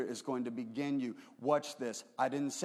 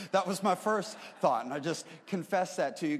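higher, louder sheepish confession; confessing; 5 semitones higher, 6 dB louder than usual. Real, not acted. Pastor confessing to the congregation, louder sheepish admission. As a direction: own up with a laugh in the voice. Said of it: "I'm just gonna confess to you".

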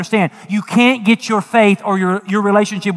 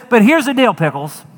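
playful Jesus; 3 semitones higher, 3 dB louder than usual. Pretend. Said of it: "He didn't say that. I added that".

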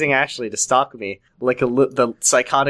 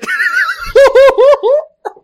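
very high, loud drawn-out howl; mock wail; 9 dB louder than usual. Crying sister after her weak excuse, high mock wail. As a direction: howl in exaggerated despair.

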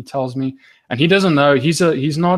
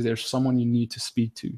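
softer, understated seriousness; really serious; 5 dB quieter than usual. Retold or imitated. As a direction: imitate a grave, quiet insistence. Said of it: "looks at me really seriously".

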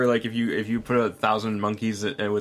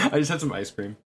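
giddy; 3 semitones higher, much faster than usual. Real, not acted. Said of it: "You sound very giddy about it".

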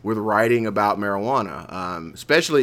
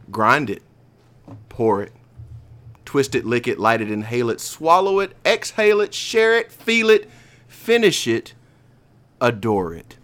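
poem reading. Acted. Reads a short poem aloud.

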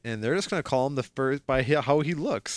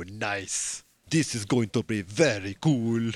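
Arnold-like Blade; 4 semitones lower, slower than usual. Retold or imitated. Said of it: "When did he become Arnold Schwarzenegger".

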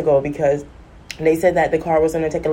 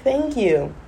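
higher, lightly voiced little child; a small child's soprano thank-you; hint of a two-year-old's high voice; toddler soprano; 6 semitones higher than usual. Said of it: "two years old, soprano voice".

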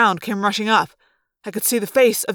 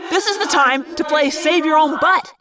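high, shouted sarcastic retort; exasperated raised-voice scolding; snapping; 7 semitones higher, 3 dB louder than usual. Acted. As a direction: snap back loudly, fed up. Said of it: "Marco snapped".

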